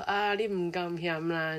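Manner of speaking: slow, humble host brushing off praise; mock modest host. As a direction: drag it out like a shy Taiwanese host. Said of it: "煮一桌菜还要说". (慢吞吞地谦虚推辞)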